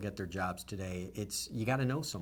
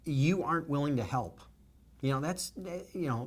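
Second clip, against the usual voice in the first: moved, fighting to hold it together; getting emotional; 4 semitones higher than usual. Real, not acted. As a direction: voice rising high and thinning, choked up. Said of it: "I'm sorry to get emotional".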